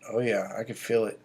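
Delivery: low, soft, knowing murmur; knowing aside. Retold or imitated. Retelling himself to his girlfriend as her period nears, low and knowing.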